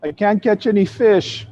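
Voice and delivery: a hint of a tearful little girl. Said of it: "the Hawaiian girl says".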